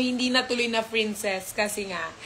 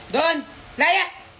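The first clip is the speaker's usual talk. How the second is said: mock shouting; 6 semitones higher than usual. Chasing the dogs away.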